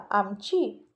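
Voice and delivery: surprised. Acted. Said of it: "ओम थोडा चकित झाला".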